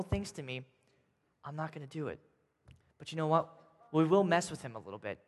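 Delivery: soft, quiet David refusing; quiet refusal from hiding; hushed refusal. Acted. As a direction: keep it low, hiding in the cave.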